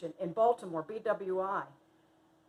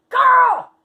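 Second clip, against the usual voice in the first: loud, high shout to a friend; excited exclamation; 16 dB louder than usual. Retold or imitated. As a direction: holler it at your girlfriend. Friend exclaims during night drive.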